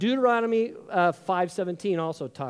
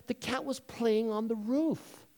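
gentle, careful, slightly higher voice; breaking news gradually; 5 semitones higher, 5 dB quieter, slower than usual. Acted. Brother models breaking cat news gradually, gently. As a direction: ease into the bad news. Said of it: "you could have broken the news gradually".

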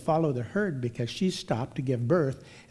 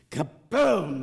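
booming sound effect, stretched out; imitated crash; 3 semitones higher than usual. Storyteller mimics the newborn giraffe's fall, imitated crash. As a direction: drop the crash in with a big swoop. Imitates the baby hitting the ground.

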